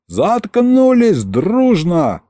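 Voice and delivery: high, drawn-out bellow; yelled command. A narrator's reading. Governor silences the whole crowd, yelling. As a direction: roar them all into silence. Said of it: "вскинул руки и заорал".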